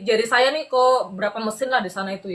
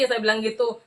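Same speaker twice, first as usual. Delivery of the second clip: ordinary talk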